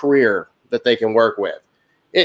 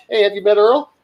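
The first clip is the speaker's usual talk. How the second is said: cheery introduction; 8 semitones higher than usual. Retold or imitated. Teller introduces Earl to customers.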